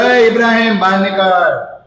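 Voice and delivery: a sharp, angry call at the door; angry summons. Retold or imitated. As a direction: call him out in anger. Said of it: "ગુસ્સે થયા છે". (ગુસ્સાથી બૂમ પાડીને બોલાવવું)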